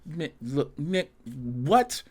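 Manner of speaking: mildly voiced fed-up monster; weary Kong. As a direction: whine like you're tired of fighting. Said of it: "You got Kong like".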